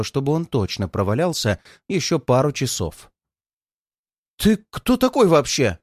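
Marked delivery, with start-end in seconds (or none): 4.4-5.8 громкий испуганный вопль; выкрикни, высоко и громко. A narrator's reading. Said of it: "вопит принц Вартан". (громкий высокий крик)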